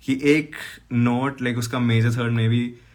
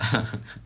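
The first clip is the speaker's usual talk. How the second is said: short quiet laugh; 5 dB quieter than usual. Real, not acted. Laughs at own mix-up.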